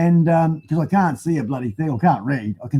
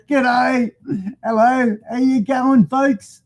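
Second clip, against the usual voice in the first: higher, playful toy voice; voicing the mascot; 7 semitones higher than usual. Vlogger voicing his toy mascot greeting viewers, higher. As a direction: give the little mascot a squeaky hello. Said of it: "He wants to say".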